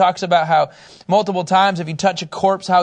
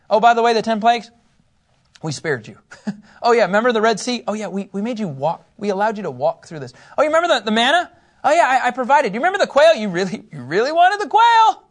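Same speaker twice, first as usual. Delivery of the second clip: God listing his gifts; 3 semitones higher, faster than usual. Acted. God reminding Israel of miracles.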